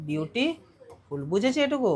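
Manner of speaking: beautiful very slowly split, beauti, then ful; broken into syllables. Shown as a demonstration. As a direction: pull beautiful apart with a gap before ful. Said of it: "একবার উচ্চারণ করা যায় না".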